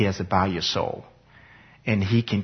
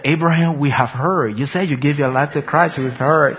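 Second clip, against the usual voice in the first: higher, mock-weary friends' voice; teasing friends; 4 semitones higher than usual. Friends tired of hearing Abraham's news, teasing and higher. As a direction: brush him off, you've heard it already.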